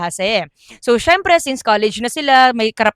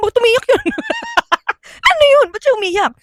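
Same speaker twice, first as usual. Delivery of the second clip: high, puzzled asking; high mock-bewildered classmates; surprised classmates; 11 semitones higher, faster than usual. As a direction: ask in baffled disbelief. Classmates baffled at crying.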